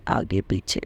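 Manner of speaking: repeats it in an unvoiced hush, marvelling; soft whispered echo. Real, not acted. Telling devotees how the cars followed, whispered in wonder. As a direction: breathe the words out in awe. Cars escorting ahead and behind.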